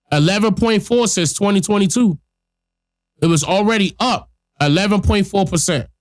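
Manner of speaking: blocked nose from a cold; stuffy nose. Real, not acted. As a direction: talk through a stuffed-up nose. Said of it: "I sound all stuffy nose".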